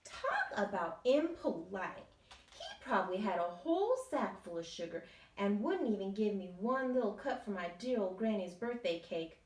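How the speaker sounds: loud indignant complaint. Acted. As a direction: huff about the rude pig. Wolf indignant about pig.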